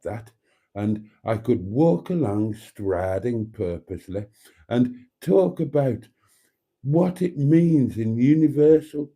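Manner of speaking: lightly voiced musing friend; imitating Mustard. Host mimics Mustard pondering his beard. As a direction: muse aloud as Mustard would. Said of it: "Mustard sounds exactly like my".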